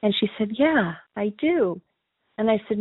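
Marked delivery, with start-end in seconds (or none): 0.6-1.8 slow, calm retold reply. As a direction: imitate her sudden calm, unhurried. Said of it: "completely calm".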